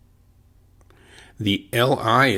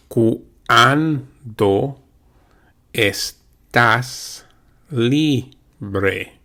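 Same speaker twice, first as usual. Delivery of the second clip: slow drill; much slower than usual. Shown as a demonstration. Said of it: "Let's repeat that now".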